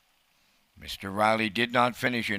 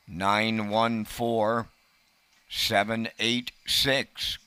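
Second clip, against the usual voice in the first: very slow number read; much slower than usual. Real, not acted. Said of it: "Tonight's fifty fifty winning number".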